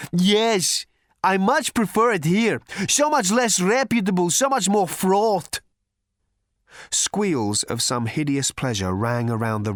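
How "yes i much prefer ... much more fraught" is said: loud, high thunder god voice; booming god. A narrator's reading. Thor voiced.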